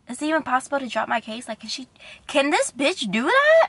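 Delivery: fast, incredulous retold outrage; mock outrage rising sharply at the end; quick disbelieving rant, acted out; indignant. Retold indignant thought about attorney.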